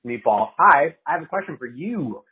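talking with food in mouth; mouth full. Real, not acted. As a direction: speak around a mouthful. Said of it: "I still have fucking food in my mouth".

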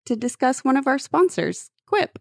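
upbeat sponsor ad read. Acted. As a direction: pitch the product like an announcer. Host reads the sponsor ad.

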